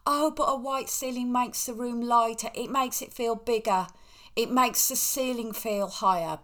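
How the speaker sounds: mock protest trailing into blah-blah; listener's objection. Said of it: "the same thoughts that you've got".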